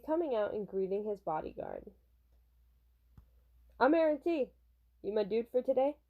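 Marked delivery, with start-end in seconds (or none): 3.8-6.0 put-on light, unintended Southern twang on a boy idol; lively line with a slip into Southern; Southern accent. Manga reader voicing T to his new bodyguard, slightly Southern. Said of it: "I keep making T southern".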